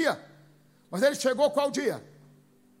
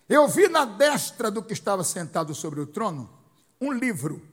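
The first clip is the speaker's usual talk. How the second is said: ler o versículo com voz forte e pausada; leitura bíblica solene; 6 dB louder than usual. Real, not acted. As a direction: proclamar a escritura, marcando cada frase. Reading the verse aloud to congregation. (leitura solene do texto sagrado)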